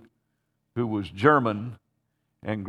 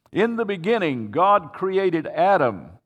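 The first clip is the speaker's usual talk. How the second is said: higher, declaimed Bible reading; reading scripture aloud; 6 semitones higher than usual. Retold or imitated. Pastor imitating a minister reading Genesis to his host, declaimed reading. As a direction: proclaim the verse, drawing out its end. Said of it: "And he started reading".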